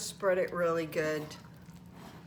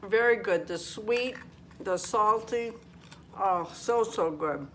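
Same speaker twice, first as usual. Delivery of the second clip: mouth full; 3 dB louder than usual. Real, not acted. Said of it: "Shouldn't talk with my mouth full".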